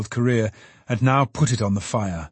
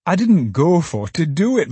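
flustered Trotty; 7 semitones higher, 4 dB louder than usual. Acted. Trotty apologising.

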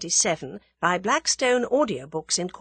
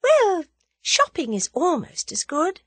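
slow, high-pitched reverie; wistful, lingering daydream; dreamy; 11 semitones higher, 5 dB louder than usual. A narrator's reading. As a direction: drift off dreamily, drawing words out. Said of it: "said Tuppence dreamily".

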